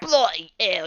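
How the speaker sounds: milder exclamation. Retold or imitated. Repeats the yell less loudly.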